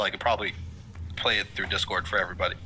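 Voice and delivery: talking through hiccups; words broken by hiccups. Real, not acted. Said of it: "I'm just gonna keep on hiccuping".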